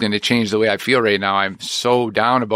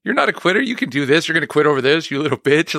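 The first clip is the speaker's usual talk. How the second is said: mock tough-love pep talk, pitched higher; tough inner voice; 5 semitones higher, faster than usual. To himself after a rejection, a higher mock tough-love voice. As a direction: bark at yourself like a coach who won't let you quit. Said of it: "this voice in my head".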